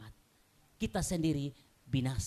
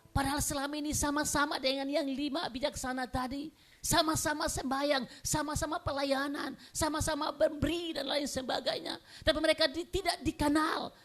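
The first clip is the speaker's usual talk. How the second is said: high, insistent sermon delivery; urgent pulpit proclamation; impassioned preaching; 12 semitones higher, 4 dB louder than usual. Real, not acted. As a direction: preach it forcefully to the congregation. Preaches at full force.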